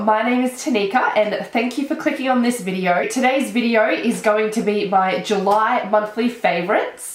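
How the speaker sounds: blocked nose from a cold; talking through a stuffy nose; nasally voice. Real, not acted. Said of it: "Excuse the, um, nasally voice".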